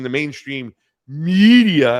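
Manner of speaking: loud, nasty, condescending sneer stretching out "media". Telling Kyle how to say the news or media: very condescending and nasty. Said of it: "you got to make sure you say it like that. Very condescending, very nasty".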